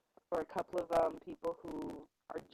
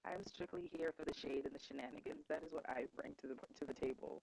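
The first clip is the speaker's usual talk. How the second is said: far away; 3 semitones lower, 7 dB quieter than usual. Real, not acted. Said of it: "You're still sounding very far away".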